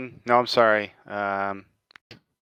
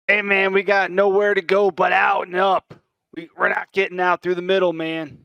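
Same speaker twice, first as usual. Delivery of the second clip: higher-pitched call over the chaos; shouting across the room; 8 semitones higher than usual. Acted. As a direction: shout it out to a teammate behind cover. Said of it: "I'm just gonna shout out".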